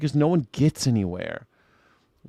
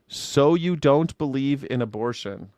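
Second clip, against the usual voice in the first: slow mock gotcha; slower than usual. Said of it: "What does that mean".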